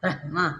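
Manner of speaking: ब्रह्मा with extra force on the breathy h before the m; pressed h. Shown as a demonstration. Teacher pointing out where effort falls in ब्रह्मा. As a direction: push a little on the ह in ब्रह्मा. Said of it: "देखो थोड़ा यहाँ जोर पड़ता है".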